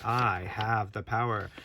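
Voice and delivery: slow, drawn-out proclamation, lightly acted; a hint of a stately pretend heroine; lightly voiced Sorceress. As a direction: playfully declare it as the figure, unhurried. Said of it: "She's saying".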